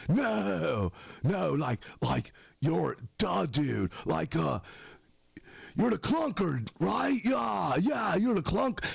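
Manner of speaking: mock fan voice, pitch climbing as he insists; pestering fan. Dude insists he knows him, halting fan voice. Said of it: "one or two dudes where it's like".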